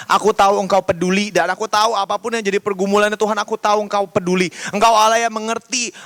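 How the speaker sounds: earnest, evenly flowing prayer; recalled prayer. Retold or imitated. Youth leader praying for a grieving stranger, steady earnest prayer. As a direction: pray steadily on someone's behalf, addressing God. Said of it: "Kakak cuma ngomong gini".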